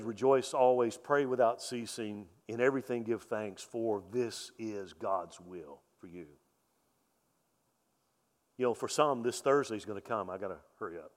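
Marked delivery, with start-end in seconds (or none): 0.0-6.3 lower, softer true quote, slowing at the end; sincere scripture reading. Retold or imitated. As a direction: read the real verse gently, as the answer. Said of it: "No, he says".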